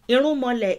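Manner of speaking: "Irunmale" given extra weight; stressed example word. Shown as a demonstration. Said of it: "is collective".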